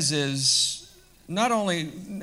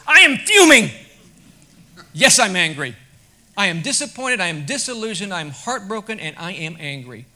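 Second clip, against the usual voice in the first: fuming outburst; 3 semitones higher, 13 dB louder than usual. Retold or imitated. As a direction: burst out fuming, then wind down to a heavy admission. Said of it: "I probably said".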